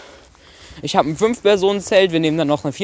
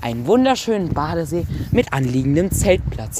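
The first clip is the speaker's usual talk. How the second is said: infomercial. Pretend. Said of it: "vernünftige Werbung machen".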